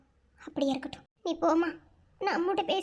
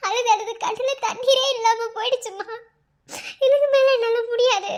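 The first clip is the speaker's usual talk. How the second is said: tearful outburst; 3 semitones higher, 4 dB louder than usual. Acted. Daughter to her mother, at the end of her rope, tearful outburst. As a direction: voice rising and louder as she breaks down, half laughing through tears. Daughter breaks down before engagement.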